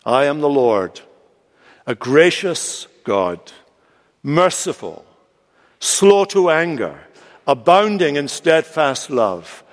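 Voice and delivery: slow, solemn declaration with pauses; measured, weighty voice of God; God revealing himself. Acted. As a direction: proclaim each attribute slowly and separately. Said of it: "he says this to Moses".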